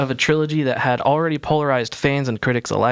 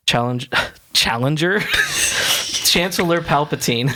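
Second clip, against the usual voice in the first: laughing; 3 semitones higher than usual. Real, not acted. Misreads the word, laughs.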